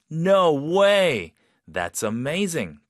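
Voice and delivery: high, loud "no way" of delighted amazement; happily surprised. Shown as a demonstration. Teacher reacting to a perfect English test score, happily surprised. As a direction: react to great news with amazement. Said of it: "그냥 일반적으로 놀랐어요".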